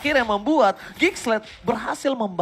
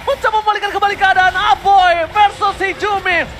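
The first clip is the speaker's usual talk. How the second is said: esports caster; 11 semitones higher, 8 dB louder than usual. Real, not acted. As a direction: stretch the call at peak hype. Hyped play-by-play call.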